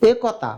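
"একতা" with a pure e at the start; spelling pronunciation. Shown as a demonstration. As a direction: read "একতা" as written, "e-ko-ta". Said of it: "উচ্চারণ কি একতা নাকি". (বানান ধরে "একতা")

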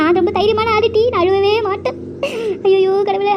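high, whining comic sob; comic crying. Acted. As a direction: wail that she's brave while crying. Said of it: "அழுதுகிட்டே இருக்கிறேனே".

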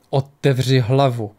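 slow, stern order; a stern master pressing his pupil; sternly. Acted. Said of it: "řekl přísně Ari".

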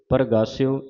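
ਪ੍ਰਗਾਸਿਓ as par-gaas-yo; pronunciation demo. Shown as a demonstration. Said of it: "ਇਸ ਤਰ੍ਹਾਂ ਉਚਾਰਨ ਕਰਨਾ ਹੈ".

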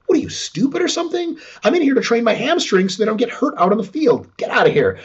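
incredulous scoff. Retold or imitated. Aussie Rules player brushing off a critic, scoffing. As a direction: sneer at a silly question. Footballer mocks the questioner.

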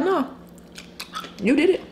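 God's voice. Retold or imitated. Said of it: "He'd be like".

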